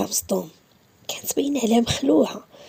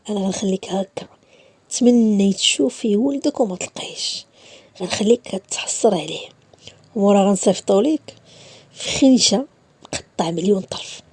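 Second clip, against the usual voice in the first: cold threat; 2 semitones lower than usual. Acted. Issa threatening the mother, cold and slow.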